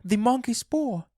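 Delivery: very high, frantic exclamation; shrieked-out sudden realisation; excited cry. A narrator's reading. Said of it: "she cried".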